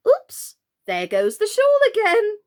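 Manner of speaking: high gasping oops; startled gasp. Acted.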